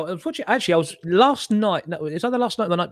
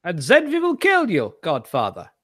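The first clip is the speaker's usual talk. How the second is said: mock German film villain; 2 semitones higher than usual. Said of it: "a person playing a German smoking".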